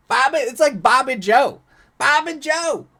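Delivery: high, loud mock hillbilly. Reader mocks the name Jamie Boy, loud hillbilly holler. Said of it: "read 'em like they're just hillbillies".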